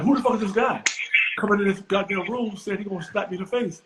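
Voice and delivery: high, incredulous mock rant; imitating Larry, lightly high; mock stunned Larry. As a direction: play Larry baffled at the stranger.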